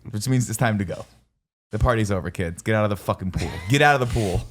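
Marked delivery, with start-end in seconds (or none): 1.7-4.4 dad voice. Acted. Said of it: "when he does the dad thing".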